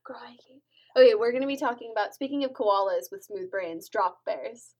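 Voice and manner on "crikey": tiny hushed echo; whispered echo. Pretend. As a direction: whisper it back. Echoes the hushed catchphrase.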